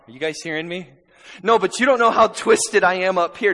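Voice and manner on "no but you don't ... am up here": anxious believer. Acted. Voicing a doubting believer.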